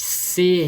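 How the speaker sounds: "C" sounded as a strong, isolated syllable; stressed syllable SE. Shown as a demonstration. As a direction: give "C" weight as the middle syllable of sossego. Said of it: "qual que é a sílaba mais forte?". ("C" com força, como sílaba tônica)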